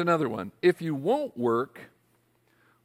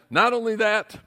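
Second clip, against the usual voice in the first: higher, louder, slowing on the times; milk each new perk; mock excited announcement; 6 semitones higher, 6 dB louder than usual. Rep piling on perks, excited and loud.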